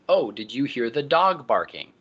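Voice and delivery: put-on a touch of child-directed encouragement; encouraging a child. Adult recasting a toddler's words, encouraging child-directed speech. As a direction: gently model the sentence for a little one. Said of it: "you can correct them and encourage them".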